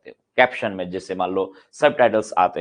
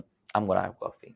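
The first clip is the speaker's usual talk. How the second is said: very slow, each word laid out; teacher slows down to model the sentence; 3 semitones lower, 4 dB quieter, much slower than usual. Shown as a demonstration. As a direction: spell the sentence out slowly for learners. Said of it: "तो आप क्या कहोगे".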